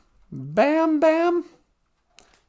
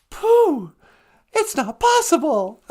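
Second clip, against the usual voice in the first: mock astonishment; 2 semitones higher, 5 dB louder, slower than usual. Acting startled Christopher Robin.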